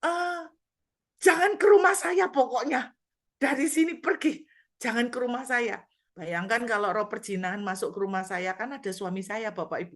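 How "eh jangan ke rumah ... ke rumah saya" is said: high, loud urgent shout; preacher reliving ordering the spirit away from her home; urgent command. Retold or imitated. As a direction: shout it so it never reaches your house. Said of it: "saya mulai sadar gini".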